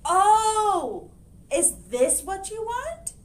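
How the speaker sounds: high, bright helpful question; kindly librarian. Acted. Librarian handing the hen books, high and kindly. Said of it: "asked the librarian".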